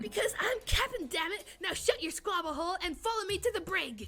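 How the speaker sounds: bossy pirate captain. Acted. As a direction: order them around like a pirate. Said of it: "Aelita's really embracing Talk Like a Pirate Day".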